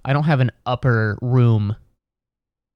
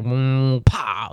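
imitated press squish. Shown as a demonstration. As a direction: mouth noise of crushing. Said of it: "like that".

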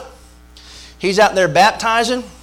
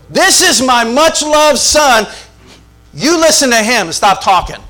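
voice of God; 5 semitones higher, 3 dB louder than usual. Retold or imitated. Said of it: "And he basically says".

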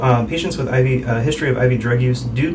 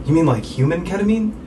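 higher-pitched, eager question; excited patient; 6 semitones higher than usual. Retold or imitated. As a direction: imitate an excited patient asking. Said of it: "he got really excited".

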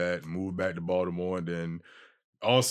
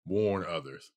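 natural Baltimore accent on the band name; 3 semitones lower, 5 dB quieter, slower than usual. Real, not acted. Repeating band name for puzzled host, Baltimore accent. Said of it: "Baltimore accent".

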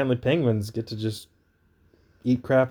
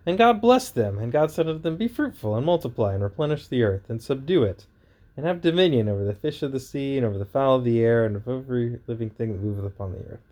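booming biblical narration. Acted. Reads Genesis aloud.

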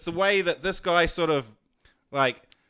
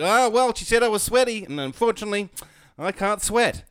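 Prince Andrew; 4 semitones higher than usual. Retold or imitated. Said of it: "I would've used the Prince Andrew s-, excuse".

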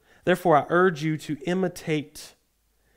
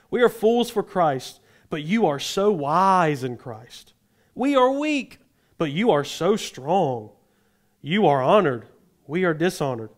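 mock humility against mock praise; sarcastic. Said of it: "Totally sarcasm. So I want you to listen to his tone".

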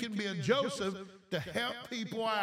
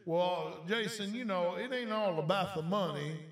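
slightly lower, mildly mocking imitation; lightly voiced religious objector; 3 semitones lower than usual. Preacher imitating religious people objecting to money, lightly mocking. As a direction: lightly imitate a pious doubter. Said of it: "here's what some religious people would do".

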